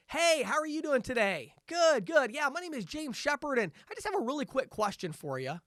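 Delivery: high, loud, beaming phone greeting; over the top positive. Shown as a demonstration. Salesman on the phone, pumped up and over the top positive. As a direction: crank up the cheer for a cold call. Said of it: "you notice that difference in tone".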